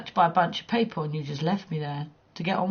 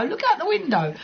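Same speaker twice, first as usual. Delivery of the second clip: fake-innocent lure; 9 semitones higher than usual. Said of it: "I'd have you in my apartment and go".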